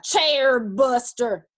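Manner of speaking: loud, slow accusing bellow; riled grizzly cry. A narrator's reading. Riled grizzly accusing the intruder, angry cry. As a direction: cry it out big and stretched. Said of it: "he cried".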